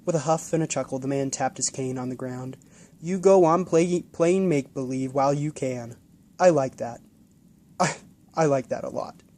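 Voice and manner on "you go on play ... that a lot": put-on louder, lightly elderly indulgent voice; kindly old man. Old man indulging the boy's make-believe, lightly elderly. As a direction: humour the child warmly.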